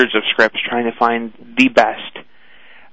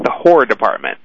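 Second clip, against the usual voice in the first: Boston horror; 2 semitones lower than usual. Shown as a demonstration. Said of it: "if you're just talking on the phone".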